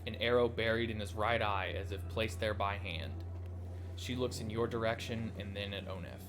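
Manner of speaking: measured dramatic read-aloud; storyteller reading game text; story narration. A narrator's reading. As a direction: narrate the scene with some drama. Reads the game's story aloud.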